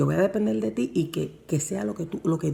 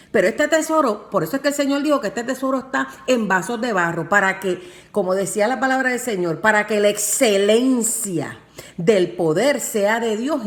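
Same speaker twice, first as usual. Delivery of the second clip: preaching at full force. Acted. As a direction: build the sermon to its peak. Preaching climax to congregation.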